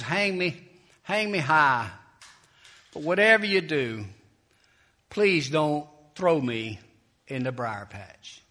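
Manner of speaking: loud, slow "please don't throw me" begging; mock pleading. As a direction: ham up the begging to trick the fox. Brer Rabbit begs, tricking fox.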